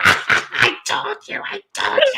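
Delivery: very high, stretched-out mock cry; slow, high-pitched I-told-you-so; high-pitched outburst. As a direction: squeal it in retold vindication. Retold gleeful outburst through door.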